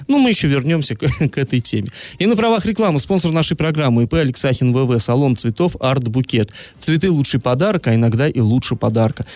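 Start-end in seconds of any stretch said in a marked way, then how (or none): 2.2-9.3 steady sponsor ad read. Acted. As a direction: read the sponsor spot clean.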